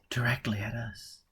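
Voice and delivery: whispered warning of the strike. Acted. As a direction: hush it as if the bombs could hear. Character whispers amid danger.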